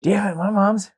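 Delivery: high, strained crying voice; wailed like you're choking back tears; tearful outburst. Retold or imitated. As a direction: squeeze the words out through a mock sob. Retold crying while cooking.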